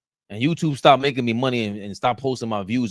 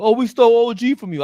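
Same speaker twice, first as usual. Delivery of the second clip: mocking fan voice, higher and louder; 11 semitones higher, 8 dB louder than usual. Host mocking Philly fans in a smug, higher voice. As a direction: taunt in a smug rival-fan voice.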